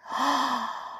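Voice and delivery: storybook gasp; short dramatic intake of breath. Acted. Dramatic breath between lines.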